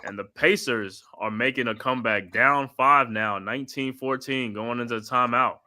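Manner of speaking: steady broadcast play-by-play, calling each pass. Acted. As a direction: call the game like a TV announcer. Live play-by-play call.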